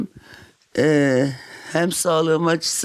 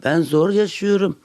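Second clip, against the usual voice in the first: breathless, wheezing, a bit higher; wheezy voice; 4 semitones higher than usual. Real, not acted. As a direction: push words out between labored breaths. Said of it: "Nefesimden ve sesimden de anlaşıldığı gibi". (hırıltılı, nefes nefese ses)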